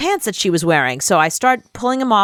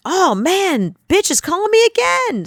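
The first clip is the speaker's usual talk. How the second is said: put-upon, higher-pitched groan; mock exasperation; 10 semitones higher than usual. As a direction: whine it as a mild complaint. Groaning at a producer's incoming call.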